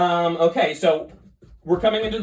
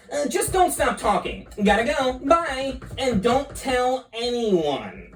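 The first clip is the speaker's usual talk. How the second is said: scheming squid voice; 5 semitones higher than usual. Acted. Reading Squizzard's lines.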